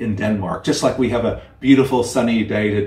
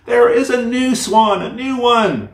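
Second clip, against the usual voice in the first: put-on much higher, louder little child calling out; excited child cry; 11 semitones higher, 4 dB louder than usual. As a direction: cry out like the youngest child spotting a swan. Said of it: "cried the youngest".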